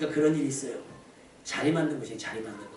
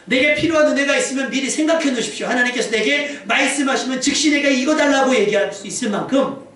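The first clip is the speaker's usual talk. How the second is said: raised, urgent pulpit voice; forceful preaching; 5 semitones higher, 5 dB louder than usual. Real, not acted. Preacher urging worshippers to seize the chance, forceful preaching. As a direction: press the exhortation on the congregation.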